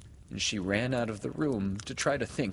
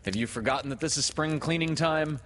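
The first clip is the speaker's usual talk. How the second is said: raised, mildly reproachful question; a little stern; 6 semitones higher, 4 dB louder than usual. A narrator's reading. Peter reminds Wendy of spring cleaning time, a little sternly. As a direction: scold lightly with the voice pitched up. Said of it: "he added a little sternly".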